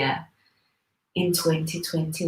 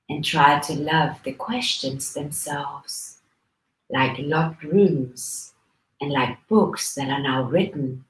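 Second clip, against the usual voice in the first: poem reading. Acted. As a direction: read it line by line, drawing out key words. Reads the poem a second time.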